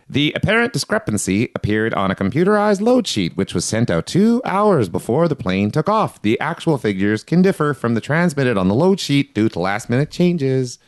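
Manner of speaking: official statement read-out. Acted. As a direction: read it like an official press release.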